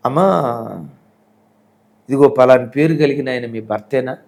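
a worried stranger on the phone, pressing; anxious caller. Retold or imitated. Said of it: "కంగారుగా స్వరం వినపడుతుంది".

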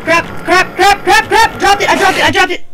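high, loud, rapid-fire yelping; flustered gamer in a sudden scramble; panicked. Real, not acted. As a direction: repeat it frantically as things go wrong. Panics after dropping item.

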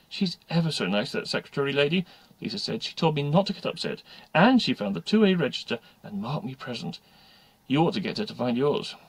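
a hint of pleased schoolgirl; relieved schoolgirl. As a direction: share good news with a classmate. Lisa, relieved pupil, reports back.

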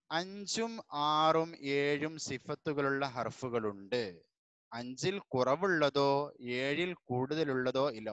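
unhurried read-aloud of the lesson; teacher reading the lesson to the class; slow textbook reading. Shown as a demonstration. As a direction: read the rule slowly and clearly. Reads the lesson text slowly.

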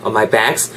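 "bags" with a stretched open A; long vowel. Shown as a demonstration. Teacher corrects learners' vowel length, drawn out. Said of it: "bags 할 때 좀 이렇게 길게".

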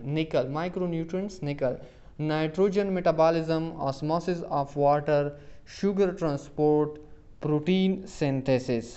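options read out slowly, one by one; slow quiz reading. Acted. Teacher reads options to students, slow and deliberate. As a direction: spell out each option for the class.

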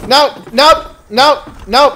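alarmed cries. Real, not acted. Fleeing the game's enemy.

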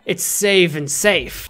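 "save and safe" stretched slow and deadpan; slow emphatic "save and safe". Acted. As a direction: draw out "it's save and safe" slowly. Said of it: "That's the way we roll".

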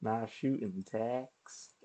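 slow, hammed-up Texan drawl; badly faked Texan, drawn out; awful Texan accent. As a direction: attempt a bad Texan accent.

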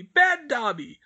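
high, loud self-punishing elf; self-scolding elf. A narrator's reading. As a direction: scold yourself again as the elf.

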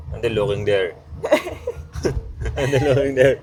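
laughing, then high and loud; amused teasing. Real, not acted. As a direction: tease through a laugh. Laughing at partner looking away.

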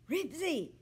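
high loud call of the dog's name; shouting. A narrator's reading. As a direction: shout his name into the phone. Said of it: "Henry was shouting".

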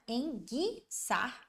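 ENGUIÇAR said slowly, GU as a hard G without the U; silent U. Shown as a demonstration. Teacher shows where the U disappears, slow syllables. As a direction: split "enguiçar" as en-gui-çar, U silent. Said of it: "O som do U só sumiu aqui".

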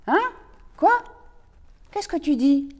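talking with jaw open; mouth wide open. Acted. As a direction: speak through gaping mouth. (loup qui parle la gueule ouverte)

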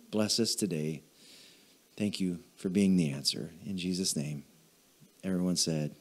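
hushed pastoral prayer; closing prayer. Acted.

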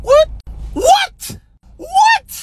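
shocked disbelief. Real, not acted. Reacting to a rude question with high shocked disbelief. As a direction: squeak it out in disbelief.

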